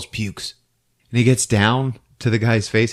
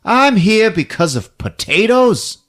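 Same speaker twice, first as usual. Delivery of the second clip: higher, drawn-out disbelieving question; mock incredulity; 10 semitones higher, slower than usual. Cop learns he was called out over potatoes, incredulous. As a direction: act out slow, rising disbelief.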